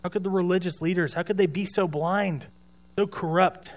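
mock a self-righteous critic's questions, lightly; how-could-they reproach, acted out; critical disbelief. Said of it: "I find myself criticizing all these people".

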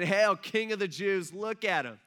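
loud, slow mock salute; making fun. Soldiers bowing down to their prisoner, making fun. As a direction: hail him with put-on pomp, imitating jeerers. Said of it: "they're making fun of Jesus".

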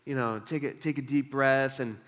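mock relaxed sigh.

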